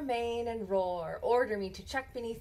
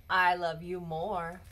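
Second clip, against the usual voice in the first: tender; 3 semitones lower than usual. Acted. Mother answers tenderly.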